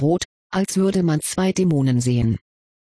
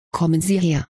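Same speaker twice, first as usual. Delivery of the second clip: ein Hauch von drohendem Lehrer, „Sie“ betont; leicht drohend anblaffen; threatening snap. A narrator's reading. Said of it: "schnappte Professor Snape drohend". (leicht drohend geschnappt)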